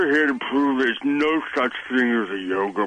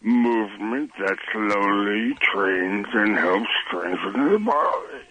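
slow, soothing yoga teacher pace; unhurried, lulling delivery; slow and relaxing. Real, not acted. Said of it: "It's very relaxing".

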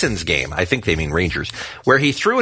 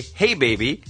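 sexy voice; slower than usual. Retold or imitated. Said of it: "in my best sexy time voice".

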